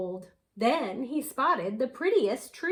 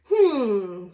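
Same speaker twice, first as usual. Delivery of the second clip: sighing hmm; 7 dB louder than usual. Acted. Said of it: "sighed the blue".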